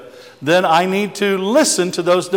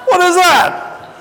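high slow alarmed what is that; imitating the startled husband; alarmed question; 4 dB louder, slower than usual. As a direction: drag out the panicked question.

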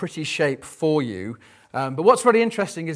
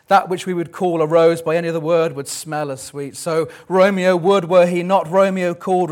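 hammed-up Juliet; 2 semitones higher, 5 dB louder than usual. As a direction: overplay Juliet for laughs. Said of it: "She says".

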